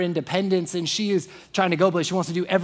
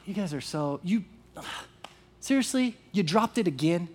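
softer, let-down mock scolding; disappointed scolding; 2 semitones lower, 5 dB quieter than usual. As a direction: sound like a disappointed parent, quietly. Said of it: "interpret it as".

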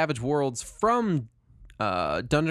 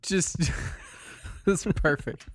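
whispered laugh; 4 semitones higher, 3 dB quieter than usual. Real, not acted. Laughing at the mask idea.

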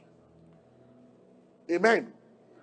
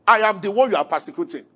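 voice of Jesus; 3 dB louder than usual. Acted. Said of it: "But he said".

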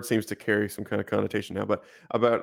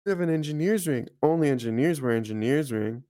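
lightly acted child, higher sing-song; little kid; 5 semitones higher than usual. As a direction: imitate an earnest kid stating the obvious. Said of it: "it'll be a little kid and be like".

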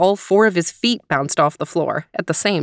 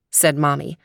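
ordinary delivery

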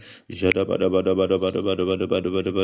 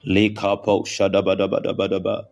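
speaking in tongues. Real, not acted. Prayer session, glossolalia.

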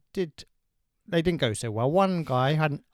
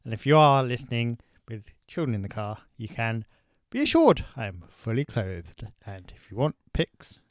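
mock reassuring; 6 semitones lower than usual. Low joking reassurance.

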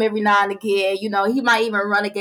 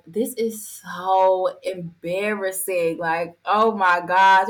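embarrassed; much slower than usual. Retold or imitated. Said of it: "I was just like".

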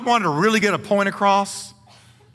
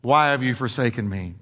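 cried out; 3 semitones lower, slower than usual. Acted. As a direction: cry it out from the cross. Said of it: "he cried out".

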